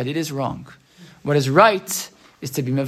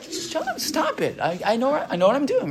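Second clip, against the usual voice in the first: mock-annoyed kid; 7 semitones higher, 6 dB quieter than usual. Annoyed child tells parent off.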